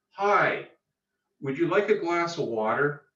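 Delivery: a hint of a friendly host offering water; lightly welcoming, easy lift at the end. Shown as a demonstration. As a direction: gently offer water to an agitated client. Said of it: "we call that a pattern interrupt".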